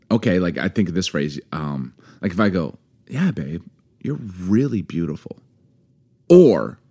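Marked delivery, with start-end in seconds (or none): 3.1-5.4 softer, heartfelt praise; sincere compliment. Shown as a demonstration. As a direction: tell a partner tenderly. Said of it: "it's just how you say it".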